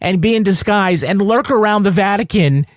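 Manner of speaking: lightly put-on Italian accent. Mafia briefing their fixer on the Vatican job, light mock Italian accent. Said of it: "we, the Italian mafia".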